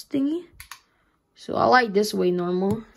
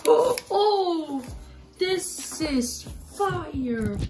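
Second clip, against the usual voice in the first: excited; 6 semitones higher, much slower than usual. Real, not acted. Reacting to new mouse.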